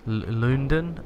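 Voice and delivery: put-on "London" sounded out as Old English, first syllable drawn out; Old English pronunciation. Shown as a demonstration. Player guessing the old town name, Old English pronunciation. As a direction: stumble on the L, then try "London" the Old English way. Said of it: "I think is how you pronounce it in Old English".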